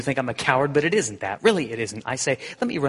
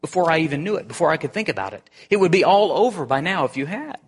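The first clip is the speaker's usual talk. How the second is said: high, strained and pleading, rising to loud; a ghost railing at the angel who hurts him; anguished accusation; 7 semitones higher, 4 dB louder, faster than usual. Acted. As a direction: hurl the questions at him in distress.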